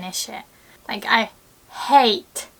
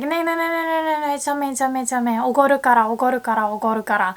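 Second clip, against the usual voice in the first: insistent friend; 2 semitones higher, much faster than usual. Retold or imitated. Mimicking a friend grabbing the bill. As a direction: play the friend who won't let you pay.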